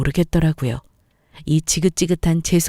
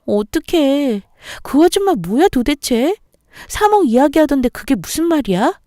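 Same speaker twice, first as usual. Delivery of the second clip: a lightly raised, anxious little-sister voice; worried younger sister; 5 semitones higher than usual. Acted. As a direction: fret over big sister, a bit higher. Younger sister's worried phone call. (걱정하는 여동생 목소리)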